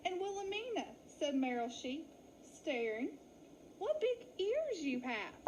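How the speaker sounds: high startled sheep; gasping surprise. Acted. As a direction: blurt it out in shock. Meryl stares at ears.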